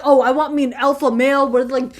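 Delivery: loud, hammed-up swooning ooh; mock swooning. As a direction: swoon over the alpha male, overdone. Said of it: "I'm not gonna sit here and be like".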